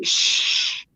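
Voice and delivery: unvoiced shh; hushing. Real, not acted. Woman hushing a friend about ages, hushed. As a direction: hush someone softly.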